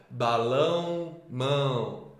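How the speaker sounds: "Balão, mão" slowly, drawing out the shared "ão"; rima destacada. Shown as a demonstration. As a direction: stretch the rhyming ending of "Balão" and "mão". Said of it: "terminam com o mesmo som". ("Balão, mão" devagar, com "ão" alongado)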